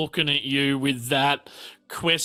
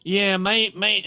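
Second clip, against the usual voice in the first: character voice; 5 semitones higher than usual. Acted. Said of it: "And she's like".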